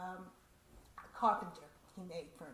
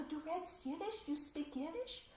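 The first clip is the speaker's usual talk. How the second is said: excited surprise; 8 semitones higher than usual. Retold or imitated. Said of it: "the woman was very excited".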